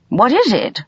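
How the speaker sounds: high, alarmed question; gasped. A narrator's reading. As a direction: gasp it in sudden alarm. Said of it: "gasped Missus Polyfax".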